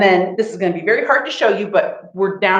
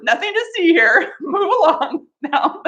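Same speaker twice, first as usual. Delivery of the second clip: mock dismissive; 9 semitones higher than usual. Joking about weird channel.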